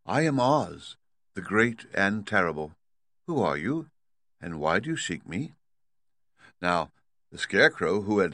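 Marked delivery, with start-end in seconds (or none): 0.0-5.5 sweetly. Acted. The lovely lady Oz greeting the Scarecrow, sweetly. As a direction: gently greet the visitor like a lovely fairy. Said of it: "she looked upon him sweetly and said".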